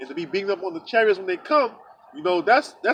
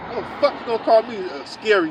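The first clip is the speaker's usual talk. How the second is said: retold indignation, a little raised in pitch; mildly angry comeback, retold; mad retort; 3 semitones higher than usual. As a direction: challenge him, offended, pitch lifted. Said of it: "you know, I got mad".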